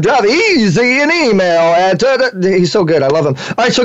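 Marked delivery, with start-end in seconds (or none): 0.0-2.0 a lightly done slow radio announcer read; slow down and sell the station name like the announcer; announcer impression. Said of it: "do your impression of our announcer".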